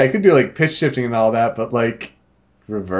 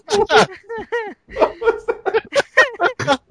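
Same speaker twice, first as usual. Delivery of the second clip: very high, slow, warped voice; reversed voice effect; much slower than usual. Pretend. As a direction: sound played backwards.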